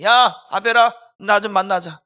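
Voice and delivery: loud, acted summons to a brother; calling out. Preacher as Cain luring his brother out, calling loudly.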